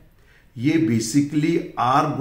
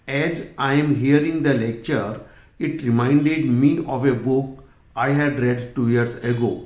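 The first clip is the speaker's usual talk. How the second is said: reading the sentence aloud; much slower than usual. Shown as a demonstration. Reads out the exam sentence.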